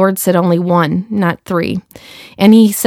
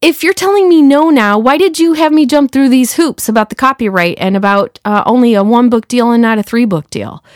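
pitched up high, mock-exasperated complaint to God; upset complaint asking why the hoops were needed; retold upset protest; 3 semitones higher than usual. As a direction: replay your frustration at God, half-laughing and pitched high. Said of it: "I was so upset".

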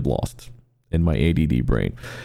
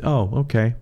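put-on innocent child; 5 semitones higher than usual. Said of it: "just this innocent".

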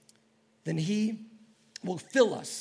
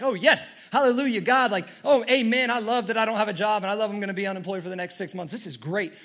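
mock hallelujah; 4 dB louder than usual. Preacher mocking the reaction he didn't have, hammed-up joy. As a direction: fake cheerful praise, sarcastic. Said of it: "I'd love to say that I was like".

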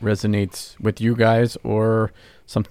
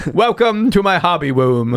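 lisp; 7 semitones higher, 4 dB louder than usual. Pretend. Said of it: "somebody saying hobby room with a lisp".

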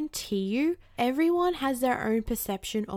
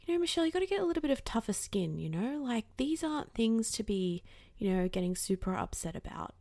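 imitating family advice; 6 dB quieter than usual. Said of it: "family basically being like".

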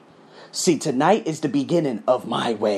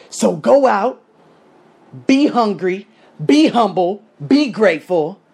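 loud rallying call; 5 semitones higher, 5 dB louder than usual. Real, not acted.

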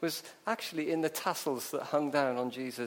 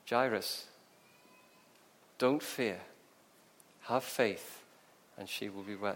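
steady and comfort, sinking lower at the end; calm reassurance; 5 semitones lower than usual. Acted. Jesus to the father amid wailing mourners, calmly reassuring.

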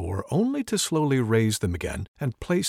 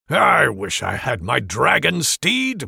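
musing; 5 dB louder, slower than usual. Acted. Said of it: "Mormek muses".

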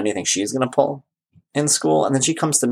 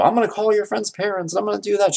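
mock overbearing dad; 9 semitones higher than usual. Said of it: "But I don't go".

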